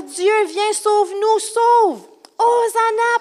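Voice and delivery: high, building plea to be saved; crowd cry. Acted. Crowd calling on God to come and save, high cry. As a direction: cry it out, rising in pitch. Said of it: "Puis il crie".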